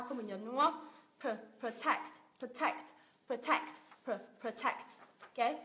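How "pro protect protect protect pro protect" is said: "protect" with a weak pruh; schwa before stress. Shown as a demonstration. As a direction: reduce "Pro-" and lean on TECT. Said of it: "nó sẽ là xoa sao".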